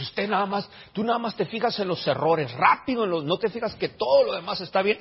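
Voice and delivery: mock reproach. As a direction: lightly mimic a family scolding. Family's complaint about his nitpicking, acted.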